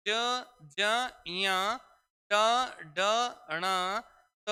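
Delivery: letters said with little breath force; unaspirated letter drill. Shown as a demonstration. Teacher has pupils read along, unaspirated letters. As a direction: read each letter lightly, one at a time. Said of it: "आप खुद देखो कम बलाघात लगाना पड़ेगा".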